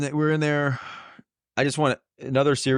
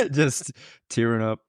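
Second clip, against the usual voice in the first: tearing up; 2 semitones higher than usual. Real, not acted.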